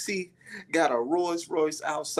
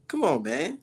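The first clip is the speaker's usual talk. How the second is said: much higher mock commenter voice; hammed-up, much higher voice of know-it-all commenters; 9 semitones higher than usual. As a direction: squeak it out like a smug commenter. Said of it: "I see a whole lot of people in my comment section".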